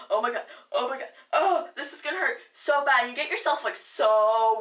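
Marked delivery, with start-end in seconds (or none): 0.1-3.0 nervous laughing panic. Retold or imitated. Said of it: "I was like".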